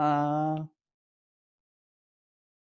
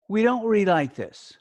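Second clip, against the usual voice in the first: words pushed together; 3 semitones higher, 3 dB louder than usual. Shown as a demonstration. Teacher demonstrating bad reading to the class, words run together. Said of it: "Pushing all the words together".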